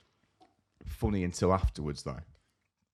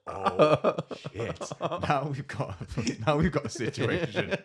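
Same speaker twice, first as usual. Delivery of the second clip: gleeful alarm; 9 semitones higher, 6 dB louder, much slower than usual. Retold or imitated. Reacting as the fight starts.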